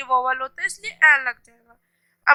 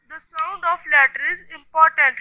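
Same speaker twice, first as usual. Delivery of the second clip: slow teaching; much slower than usual. Shown as a demonstration. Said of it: "हमें बहुत careful रहना होता है".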